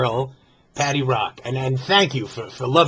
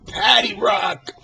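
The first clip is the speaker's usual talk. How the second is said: hyping a name; 4 semitones higher, slower than usual. Acted.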